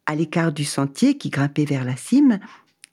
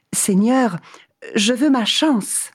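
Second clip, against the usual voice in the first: eager traveller; 7 semitones higher than usual. Acted. Man answers God.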